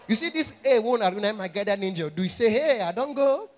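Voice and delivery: panicked shout. Retold or imitated.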